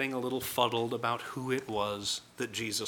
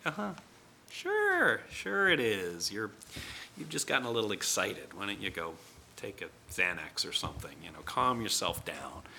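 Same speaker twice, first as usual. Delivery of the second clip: sarcastic disbelief; 4 semitones lower, 3 dB quieter than usual. Retold or imitated. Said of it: "And the disciples are like".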